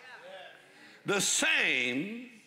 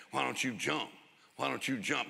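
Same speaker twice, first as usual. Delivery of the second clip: tempting devil; 2 semitones lower, 4 dB quieter than usual. Retold or imitated. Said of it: "The devil said".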